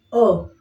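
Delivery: O said with a relaxed mouth. Shown as a demonstration. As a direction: relax and let O out. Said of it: "And then O, we just relax".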